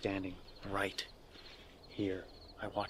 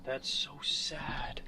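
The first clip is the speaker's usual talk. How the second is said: sad whisper; 5 semitones higher, much slower than usual. Real, not acted. Finding a baby's grave.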